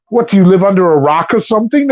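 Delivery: high mock tough guy; high squeaky voice. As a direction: squeak it a little. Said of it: "you talk like that".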